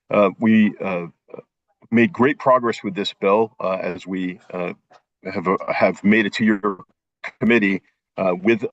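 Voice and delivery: breaking up, words dropping out; bad connection, choppy audio; choppy cut off endings. Real, not acted. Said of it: "Dan, you keep cutting in and out".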